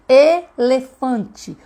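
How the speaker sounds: "Elefante" very slowly, broken into e-le-fan-te; syllable by syllable. Shown as a demonstration. Teacher showing a child the pieces of a word, syllable by syllable. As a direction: stretch "Elefante" out, a pause between syllables. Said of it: "as sílabas são os pedacinhos da palavra".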